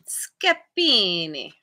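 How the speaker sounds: slow, drawn-out Italian accent on Scapini, stretched in a hammed-up way; terrible Italian accent. Shown as a demonstration. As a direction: say Scapini like a bad Italian impression. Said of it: "I always wanna say it with my terrible Italian accent".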